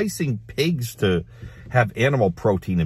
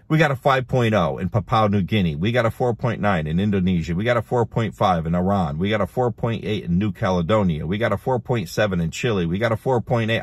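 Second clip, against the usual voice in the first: a hint of an auctioneer, rhythmic. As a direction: rattle them off like an auctioneer. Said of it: "I sound like an auctioneer".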